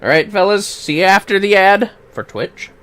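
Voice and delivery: usual speaking voice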